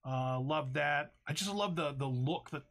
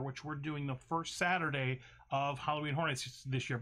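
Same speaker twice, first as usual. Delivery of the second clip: slightly slurred, numb mouth; talking with half the face numb. Real, not acted. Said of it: "half my face is numb right now".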